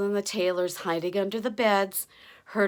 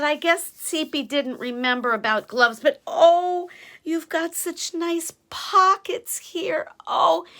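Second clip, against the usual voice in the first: pleased giant; 6 semitones higher, 6 dB louder, slower than usual. A narrator's reading. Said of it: "Og said".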